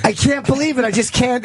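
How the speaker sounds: high reading on the edge of laughter; cracking up. Retold or imitated. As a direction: read the quote while fighting back giggles. Reads comic while cracking up.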